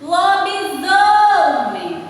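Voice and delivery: "Lobisomem!" slowly chanted, the "so" held long and high; stress on Lobisomem. Shown as a demonstration. Teacher showing children the strong syllable, "Lobisomem!" with a long, stressed "so". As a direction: call out "Lobisomem!" slowly, swelling on "so". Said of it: "O zo".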